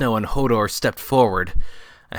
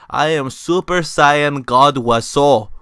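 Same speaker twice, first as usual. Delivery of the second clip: slow, louder godlike announcement; grand proclamation; 4 semitones higher, 5 dB louder, slower than usual. Acted. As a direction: proclaim your new power. Wiseau reborn, proclaiming.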